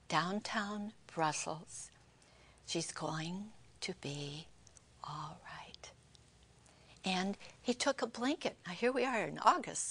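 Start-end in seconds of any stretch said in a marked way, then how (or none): 0.1-5.9 slow, hushed whisper fading away; very quiet. Retold or imitated. Guardian angel quietly reassures the injured woman, whispered softly. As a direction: breathe it gently like a calming angel. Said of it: "And he said very quietly".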